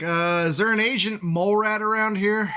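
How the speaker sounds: broad Cockney delivery man; lightly voiced Cockney dock worker; Cockney accent. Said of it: "this Cockney accent".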